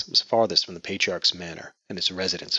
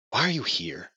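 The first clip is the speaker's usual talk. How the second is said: snapping; 4 semitones higher than usual. Acted. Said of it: "she snapped".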